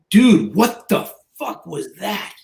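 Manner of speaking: slow, drawn-out disbelief; imitating a floored onlooker; retold astonishment. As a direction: stretch it out like a stunned gym bro. Retold gym guys stunned at his workout.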